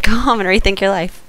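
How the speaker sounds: lightly voiced Jedi line; Obi-Wan quote. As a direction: say it like a calm Jedi. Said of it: "there we go".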